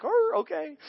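concede, a bit embarrassed; sheepish realization. Retold or imitated. Humbled after God's rebuke.

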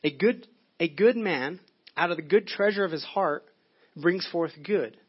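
slow, weighty scripture read. Shown as a demonstration. Pastor reading scripture to the congregation, slow and weighty. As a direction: let brings forth good land slowly. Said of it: "and he says".

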